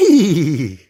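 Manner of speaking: horse neigh. Acted. Horse sound for baby.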